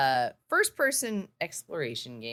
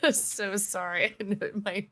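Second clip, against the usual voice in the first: eyes watering; 5 semitones higher, slower than usual. Real, not acted. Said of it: "you went full on, like, eyes watering".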